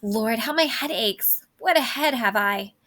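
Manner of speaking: moaning about her aching back; complaining nurse. Acted. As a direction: groan through the aches like an old nurse. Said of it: "oh, my back hurts".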